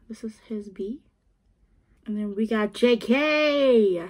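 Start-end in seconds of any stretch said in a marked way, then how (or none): 0.1-1.0 hushed aside to the camera; whisper. Real, not acted. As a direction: whisper it like a secret. Whispering card details aside.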